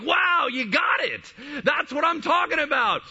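high, drawn-out shout of amazement; thrilled, celebrate it at full voice; Jesus exploding with joy. Retold or imitated. Jesus telling her she got it, exploding with joy. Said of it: "he explodes in this joy".

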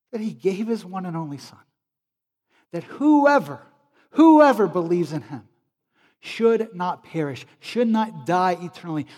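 put-on emphatic preacher with a North Carolinian accent; Billy Graham. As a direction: proclaim it measured, in a light North Carolinian accent. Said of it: "in that North Carolinian accent".

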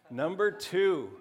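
loud, drawn-out countdown call; game-show host. Pretend. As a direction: stretch out the rank like a host. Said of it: "kind of Family Feud style".

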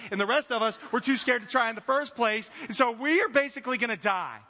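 loud, mildly exasperated mock protest; indignant complaint. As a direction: argue back at Jesus, stressing the key words. Voices disciples' indignant imagined answer.

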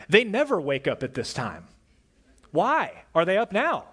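a tired parent at the end of their rope; mock-frustrated outburst; exasperated parent. Parent voicing a frustrated thought.

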